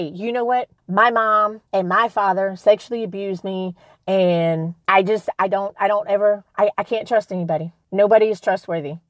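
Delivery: low, hurt, self-pitying hypothetical voice; victim voice. Pretend. Playing a self-pitying abuse survivor, low and hurt. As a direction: sink into the voice of a wounded victim. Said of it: "I could sit here today and say".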